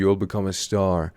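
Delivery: very slow, clear teacher reading; slow model sentence. Shown as a demonstration. Teacher models sentence slowly for class. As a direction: read "You'll become a star" slowly.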